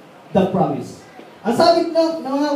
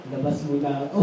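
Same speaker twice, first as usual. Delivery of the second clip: laughing; 8 semitones lower than usual. Retold or imitated. Retelling his own nervous exit.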